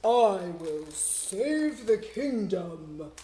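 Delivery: slow, loud hero voice; slow and loud, a hero's promise; heroic vow. Shown as a demonstration. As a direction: proclaim it like a brave knight. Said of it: "say it in a voice to match who's talking".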